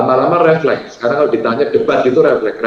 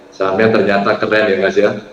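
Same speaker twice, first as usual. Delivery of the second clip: low, easy chest voice; relaxed praise from the chest; grounded, unhurried compliment; voice from below; 4 semitones lower than usual. Shown as a demonstration. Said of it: "Itu, itu enak, suaranya di bawah".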